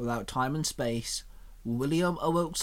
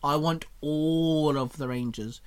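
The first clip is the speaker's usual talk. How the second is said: grinning. Acted. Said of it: "Xenon grinned".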